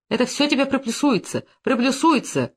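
mild shouted threat. Acted. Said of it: "крикнул, грозя кулаком".

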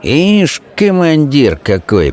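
high mocking jibe, slow at end; a small redhead mocking the commander; komar sneering. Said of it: "проговорил ... комар".

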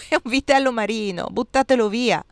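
mild shout. Acted. Fisherman tells the nuns to throw it away, mild shout. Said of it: "gridò".

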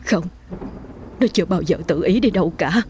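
a touch of tearful protest; bursting into tears. A narrator's reading. Mother refuses to believe her daughter ran off, tearful. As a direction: insist through the start of tears. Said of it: "bà Hương bật khóc".

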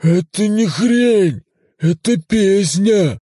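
high, loud, slow hurt protest; offended Cthulhu voice. Acted. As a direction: defend the song, wounded. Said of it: "обиженно объяснил голос".

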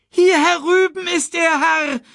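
very high, loud bird cry; urgent call. A narrator's reading. Sasu shows Mufasa where Simba is, calling out. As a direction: call out across the din, shrieking high. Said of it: "rief Sasu".

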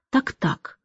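Так-так dropped almost under the breath; in varied tones. A narrator's reading. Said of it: "на разные лады".

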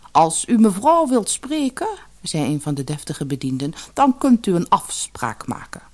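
hoog en stijf deftig; deftige bediende. Acted. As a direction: een hooghartige bediende. (deftige bediendestem)

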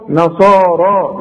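نصارى slow, the ى read as a long alif; madd on alif. Shown as a demonstration. Teacher showing how the ya is read as alif. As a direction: draw out the final alif. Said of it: "تكتب هكذا وتنطق".

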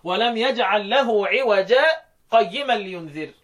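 slow recitation with a small stop on "عوجا"; slow demonstration recitation; Quran recitation. Shown as a demonstration. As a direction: recite it slowly and catch briefly after "عوجا". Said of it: "معايا يا شيخ أحمد؟".

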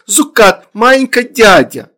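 put-on high, loud baby talk; toddler. A narrator's reading. Toddler explains to parents, high childish voice. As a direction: pipe the words like a tiny child.

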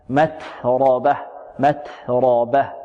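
متربة very slow, the ت whispered and the final ه clearly breathed; careful pronunciation. Shown as a demonstration. Teacher to students, modelling the breathy ت. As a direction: draw out متربة, hissing the ت and voicing the final ha. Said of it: "هنا همس في التاء".

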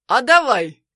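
loud vengeful "sure, go on"; vengeful agreement. Acted. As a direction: shout it out of spite. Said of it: "мстительно соглашаюсь я".

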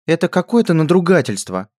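high, loud indignant outburst; spoiled princess fuming. A narrator's reading. Princess fuming at the lackey, high indignant outburst. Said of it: "возмущённо выдала та же принцесса".

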